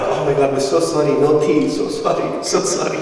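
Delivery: hurried mock-frantic apologising; flustered apology. Dad apologising to a tea guest, flustered. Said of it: "So mum is freaking out".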